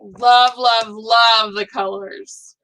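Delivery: slow excited rave, leaning on each love; gushing over a friend's finished butterfly. Real, not acted.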